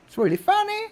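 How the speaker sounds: put-on very high, squeaky English-accent parody; mock English accent.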